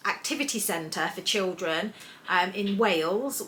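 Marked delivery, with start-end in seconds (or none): 2.3-3.4 put-on slow, lilting Welsh accent on Wales with a rise. Naming the kids' activity centre, a slow Welsh accent. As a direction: say in Wales like a Welsh local, rising. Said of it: "I said that in a Welsh accent".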